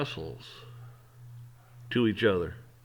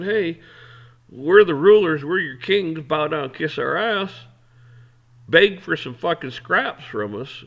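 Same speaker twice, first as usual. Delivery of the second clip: higher, louder, slow taunting voice of self-styled kings; mocking arrogant rulers; 5 semitones higher, 6 dB louder than usual. Mocking the government as kings telling people to grovel, higher and louder. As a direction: lord it over the crowd, dragging out every demand. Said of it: "Instead of stacking the deck, saying".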